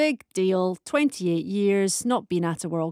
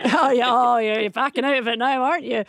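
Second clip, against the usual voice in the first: louder, teasing through laughter; laughing tease; 5 dB louder than usual. Real, not acted. Host teases caller for backing out, laughing. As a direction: laugh as you call out their backtracking.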